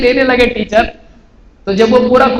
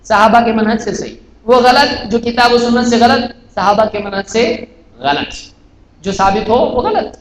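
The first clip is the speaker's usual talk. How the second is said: 1 slow firm statement. Retold or imitated. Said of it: "ہم بول رہے ہیں".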